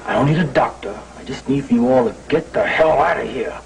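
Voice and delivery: spelled out deliberately, fed up; slow for emphasis. Acted. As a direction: spell it out for the listeners, word by word. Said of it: "say it real slow".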